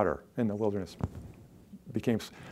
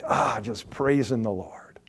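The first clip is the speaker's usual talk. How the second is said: hushed praise; 3 semitones lower, 5 dB quieter than usual. Acted. Voicing a worshipper's quiet praise.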